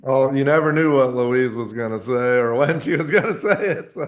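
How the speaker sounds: words bubbling with laughter; laughing while talking. Real, not acted. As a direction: laugh through the memory. Laughs while remembering Louise.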